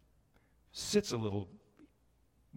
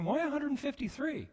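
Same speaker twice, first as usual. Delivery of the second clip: puzzled why; 11 semitones higher, 4 dB quieter than usual. Retold or imitated. Puzzled listener's inner question.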